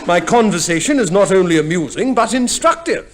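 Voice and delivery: chuckling through a smug boast; self-satisfied laughing brag. Acted. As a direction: boast while laughing at yourself. Bill boasting of himself.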